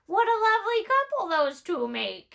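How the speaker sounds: perky high-voiced raven. Raven character voice.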